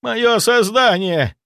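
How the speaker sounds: high, loud, slow wail; wailing howl. A narrator's reading. Zaitsev wailing over his burning creature. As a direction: howl in grief as it burns. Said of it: "завопил Зайцев".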